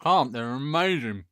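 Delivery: slow, chewing while talking; mouth full. Real, not acted. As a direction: say it through a mouthful of sweets. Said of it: "Stop eating them".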